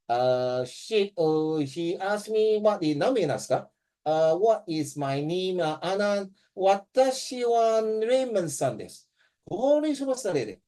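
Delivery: hammed-up flustered student groping for words; imitating a student who freezes in a test; mock panic. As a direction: act lost and frantic, slowing on the hard words. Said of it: "you freak out already".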